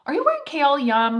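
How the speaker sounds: high, loud gushing compliment; mock gushing friend. Friend raving about her fragrance, high and loud. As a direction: play a friend swooning over the scent.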